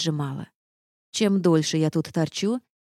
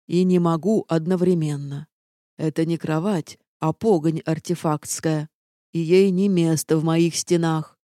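lightly voiced obstinate castle, refusing; a hint of a haughty living castle; stubborn sentient castle. Castle refusing the heroine's request, lightly stubborn.

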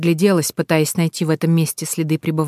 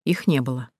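usual speaking voice

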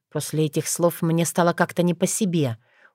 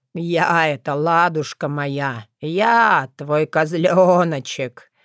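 slow, humble goat-like bleat; meek bleating; much slower than usual. Acted. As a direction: bleat it out meekly, like a kid goat. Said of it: "смиренно проблеял оборотень".

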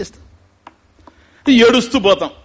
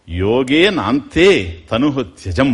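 slow recitation; 4 semitones lower, much slower than usual. Shown as a demonstration. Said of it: "అని శాస్త్రం అన్నది".

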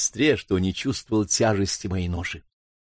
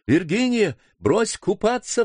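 higher, urgent call; urgent cry; 10 semitones higher than usual. Acted. Brother cries to sister to leave the pool, higher and urgent. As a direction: order her out of the water. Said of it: "вскричал я".

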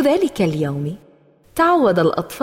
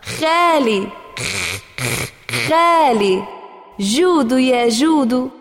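mild teasing laugh; 3 semitones higher, slower than usual. Acted. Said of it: "ضحك سمير وقال".

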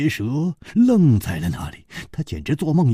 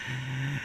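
hearty character laugh trailing away; big laugh; 13 dB quieter than usual. Acted. Leng Qiuhun laughing at his enemies, big laugh. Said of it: "冷秋魂大笑".

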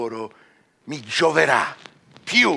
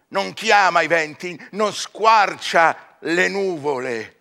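rising exaltation; 2 semitones higher than usual. Acted. Faust urges himself to study magic, growing exalted. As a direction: swell toward godlike ambition.

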